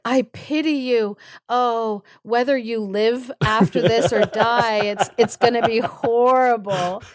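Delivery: theatrical doom-laden sympathy; exaggerated lamenting warning; mock pity. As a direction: bemoan an awful fate, hammed up. Wife's acted dramatic warning.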